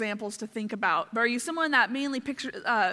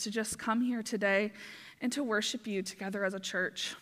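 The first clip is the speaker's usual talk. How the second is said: opening prayer. Acted. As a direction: pray it reverently for the whole room. Leads the church in prayer.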